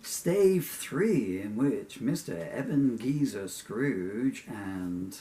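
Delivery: lightly theatrical, measured storyteller delivery; story narration. Acted. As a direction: announce the chapter slowly and grandly. Reads own story aloud.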